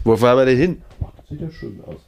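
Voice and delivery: genial statesman chatting from the back seat; idle chancellor small talk, lightly put on; Helmut Kohl. Passenger chancellor asks his chauffeur where they are going, mildly voiced. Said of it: "so Helmut Kohl-artig".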